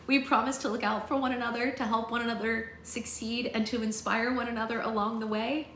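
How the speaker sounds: lightly acted, hopeful pledge; Bristol, proposing the pact. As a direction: put the promise to the group.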